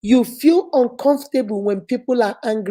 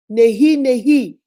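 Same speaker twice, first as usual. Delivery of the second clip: slow no. Shown as a demonstration. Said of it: "practice it with me".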